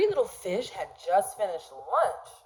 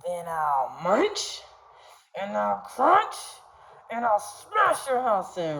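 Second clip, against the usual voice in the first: mock shark roar. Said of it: "roared the shark".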